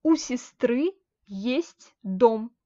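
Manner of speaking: у сестры есть дом said very slowly, word by word; slow model reading. Shown as a demonstration. Teacher modelling the example sentence slowly for students. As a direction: lay out each word slowly for the class. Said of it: "Par exemple".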